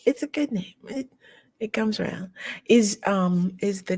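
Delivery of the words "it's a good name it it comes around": soft breathy whisper. Real, not acted. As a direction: say it under your breath. Whispered aside.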